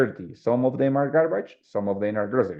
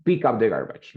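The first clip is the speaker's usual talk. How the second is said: firm instruction. Shown as a demonstration. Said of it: "I am telling you to do it".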